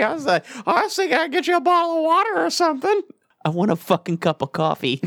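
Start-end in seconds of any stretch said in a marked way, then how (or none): 0.7-3.0 high, quick interviewer voice; flustered polite offer. Acted. Interviewer offering water instead of coffee, high and hurried. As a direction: rush it out in a raised, put-on voice.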